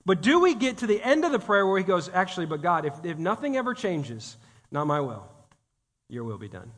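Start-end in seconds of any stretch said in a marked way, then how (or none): 2.1-6.7 hushed surrender. Retold or imitated. Quoting surrendered prayer.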